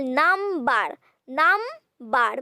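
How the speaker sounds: "number" broken in two, num-ber; split into syllables. Shown as a demonstration. Teacher showing two syllables, "number" split syllable by syllable. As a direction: say "number" one syllable at a time. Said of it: "means you are using two syllables".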